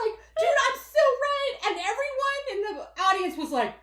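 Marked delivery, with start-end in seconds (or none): 0.4-1.5 high, loud and giddy; a bouncy, high brag; gleeful boast. Retold or imitated. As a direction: crow it while bouncing. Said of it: "dancing up and down".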